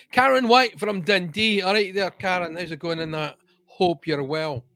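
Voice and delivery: playful mock Dundee accent. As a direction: greet her in a put-on Dundee Scots. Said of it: "why we do those stupid accents".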